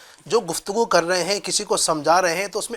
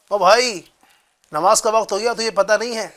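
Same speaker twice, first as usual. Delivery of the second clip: harsh scolding. Retold or imitated. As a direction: tell him off like a rude stranger. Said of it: "اس طرح سے ڈانٹ لگائی".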